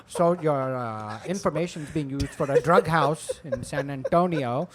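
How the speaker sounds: imitated call-center scammer accent; odd, imperfect American accent. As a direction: fake agent with a foreign accent. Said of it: "the accents are all, they can't do".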